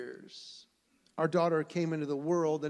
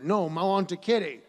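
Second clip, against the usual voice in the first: put-on loud, insistent little-kid voice; a small boy demanding a kitty; lightly voiced stubborn toddler; 8 dB louder than usual. Toddler refuses again.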